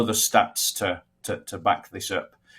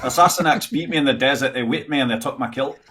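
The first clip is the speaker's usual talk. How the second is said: laughing Scottish accent; hammy Scot, half laughing; 4 semitones higher than usual. Shown as a demonstration. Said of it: "A Scottish accent would be".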